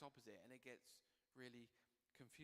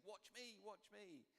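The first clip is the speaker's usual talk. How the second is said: high-pitched mock clamour at normal volume; attention-seeking shout; 8 semitones higher, slower than usual. Entertainment vying for our attention, high mock shout. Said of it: "shouts at us".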